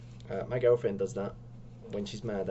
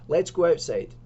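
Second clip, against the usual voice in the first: mock tough challenge; 5 semitones higher, 7 dB louder than usual. Joking challenge to fight.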